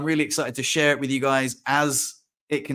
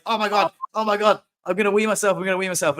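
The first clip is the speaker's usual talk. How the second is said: high, urgent mock panic; retold panic, pitched up and easing off; stressed panic; 5 semitones higher, faster than usual. Desperate for a wee on the drive home, stressed. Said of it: "that's how stressed I was".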